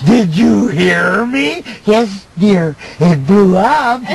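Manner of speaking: mock wife. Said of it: "the way my wife treats me".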